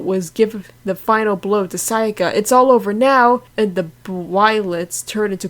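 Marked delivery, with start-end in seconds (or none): 2.3-3.4 loud, raised victory cry; triumphant shout. Acted. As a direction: declare the win out loud. Final blow in fight.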